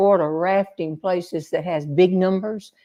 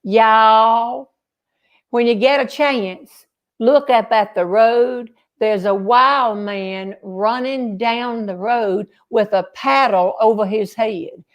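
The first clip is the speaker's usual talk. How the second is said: put-on Southern accent. Woman in the canoe alerting her group to the road, in a Southern accent. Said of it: "said in her Southern accent".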